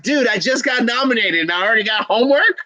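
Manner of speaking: high-pitched mock complaint, rising at the end; imitating Platinum Scales. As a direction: put on a guest's protest at getting homework. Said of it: "Platinum's like".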